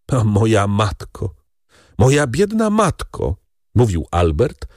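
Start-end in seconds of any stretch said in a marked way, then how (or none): 0.1-3.4 a touch of tears, rising high; tearful. Acted. Albert looks at his mother's portrait, tearful. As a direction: lament through tears. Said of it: "patrząc przez łzy".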